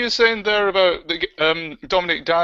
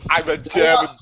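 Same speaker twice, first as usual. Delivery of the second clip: mock German accent as Arnold; 2 semitones lower, faster than usual. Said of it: "Now he's German".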